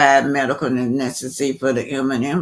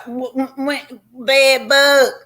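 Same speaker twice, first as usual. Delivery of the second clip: "bed bug?" pitched way up, slow and incredulous; mock disbelief; 11 semitones higher, 3 dB louder, slower than usual. Vlogger mocking the bed bug claim with high, slow disbelief. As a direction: ask "bed bug?" high and drawn out, as if it's absurd.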